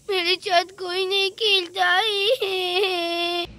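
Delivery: drawn-out tearful wail; a lonely girl sobbing to the kids who offer friendship; crying, very slow. Acted. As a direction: stretch every word out through sobs. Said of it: "पहले तो आप रोना बंद कर दो".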